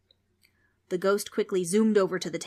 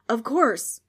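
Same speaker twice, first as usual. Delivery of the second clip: gleeful ghost; 5 semitones higher, 8 dB louder than usual. Acted.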